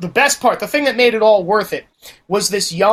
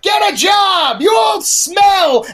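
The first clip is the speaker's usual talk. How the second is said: higher, louder yell out a car window; taunting shout; 12 semitones higher, 5 dB louder, much slower than usual. Retold or imitated. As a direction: heckle them at full volume. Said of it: "she's like".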